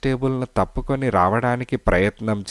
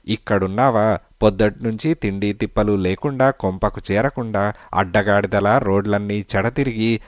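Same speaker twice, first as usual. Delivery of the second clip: scolding wife. Acted. Wife scolding her husband at the police station, furious. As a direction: tear into him like a storm.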